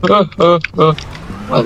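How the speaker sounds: laugh, then catch yourself; breaking into a puzzled laugh. Real, not acted. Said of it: "why am I laughing?".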